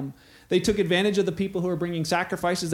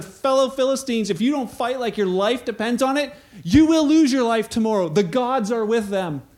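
higher, louder rallying call; rallying Philistine; 4 semitones higher, 4 dB louder than usual. Retold or imitated. Philistines encouraging each other, rousing call. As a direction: urge your comrades to fight. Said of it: "they encouraged each other".

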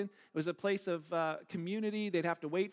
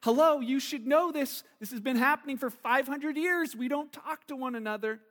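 slightly raised, incredulous retort; acted surprise; 4 semitones higher, 3 dB louder than usual. Samaritan woman answering Jesus, mildly acted surprise. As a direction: imitate a woman mildly taken aback. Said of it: "she's really surprised".

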